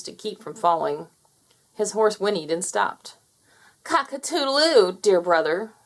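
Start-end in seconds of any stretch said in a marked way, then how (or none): 3.8-5.7 crowing taunt. Acted. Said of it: "said Fowler".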